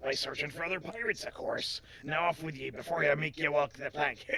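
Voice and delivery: lightly voiced pirate sending them off; a touch of pirate menace; playful sea-dog threat; pirate character.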